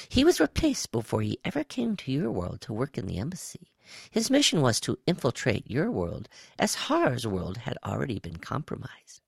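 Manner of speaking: high, swooping alien voice; brief them in a high creature voice; high-pitched reptile. A narrator's reading. Quiss explains the infiltration to Woe, high-pitched.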